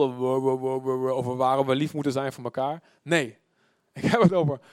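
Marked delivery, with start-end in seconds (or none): 0.0-2.8 low monotone droning on; mock rambling mumble. Preacher mocking endless preaching, mumbled monotone. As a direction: drone through it like a dull preacher. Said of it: "oeverloos gemompel".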